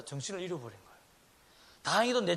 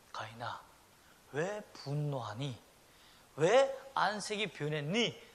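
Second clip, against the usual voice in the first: gentle counsel; 3 semitones lower, slower than usual. Acted. God counselling Cain gently.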